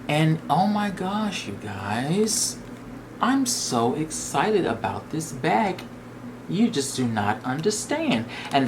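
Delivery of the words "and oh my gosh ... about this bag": breathless gush. Real, not acted. Gushing excitedly to viewers.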